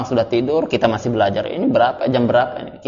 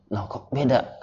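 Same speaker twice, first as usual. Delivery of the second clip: retold surprise; 10 dB quieter, slower than usual. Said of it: "Kaget anak gitu kan".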